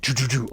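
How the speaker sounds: quick "choo" shooting noises; imitated spike fire. Host mimics spikes peppering the marines, rapid firing noises. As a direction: mimic spikes zipping past.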